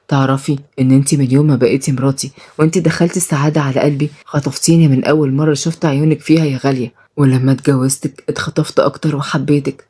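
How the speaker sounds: gentle deep-voiced husband; Shaheen, low loving husband. Shaheen confesses love.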